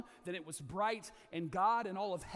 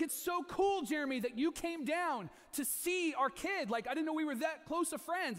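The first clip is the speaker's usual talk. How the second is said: high, slow, touched gushing; mock flattered delight; 9 semitones higher, 5 dB louder than usual. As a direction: gush at a friend's visit. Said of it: "I was like".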